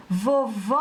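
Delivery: "Vovó" called out, final "vó" held very long; calling the word. Shown as a demonstration. Teacher calls the word to find the stressed syllable, calling out. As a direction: call "Vovó" as if to someone far off, stretching the end. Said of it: "vamos chamar a palavra vovó".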